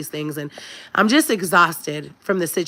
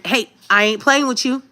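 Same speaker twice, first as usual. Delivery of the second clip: stern warning; 5 semitones higher than usual. Retold or imitated. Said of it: "Sometimes you do need to let your".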